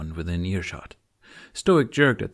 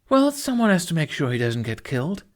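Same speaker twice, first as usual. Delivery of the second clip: hotly; 7 semitones higher, 3 dB louder than usual. A narrator's reading. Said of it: "Astrid said hotly".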